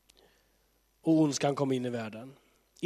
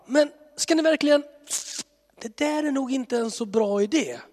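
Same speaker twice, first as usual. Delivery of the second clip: much higher, cautious warning; worried God; 10 semitones higher, 3 dB louder than usual. Pretend. God warning people about their plan, much higher and cautious. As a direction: gently warn a reckless kid.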